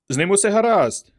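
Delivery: high, loud joyful exclamation; exclaiming. A narrator's reading. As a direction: burst out with relief. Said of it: "вигукнув Касіді".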